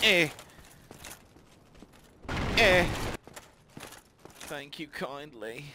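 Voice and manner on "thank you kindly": whispered thanks. Pretend. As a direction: breathe it softly.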